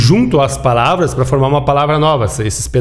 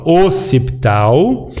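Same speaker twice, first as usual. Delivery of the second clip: syllable-by-syllable; much slower than usual. Shown as a demonstration. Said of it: "Eu separo esse C e esse T".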